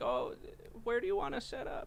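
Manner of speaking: put-on sweet, kindly old lady voice, high, swooping. Retelling what an elderly volunteer said to them: imitating a nice old lady. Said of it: "the nice old lady that was like".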